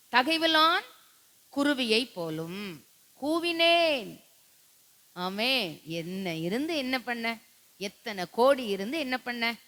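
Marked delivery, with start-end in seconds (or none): 0.1-4.2 high, loud lamenting cry; mournful wail. Acted. Pastor acts the dying king's lament, wailing high. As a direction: wail it like a grieving bird. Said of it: "எப்படி கத்துனானா?".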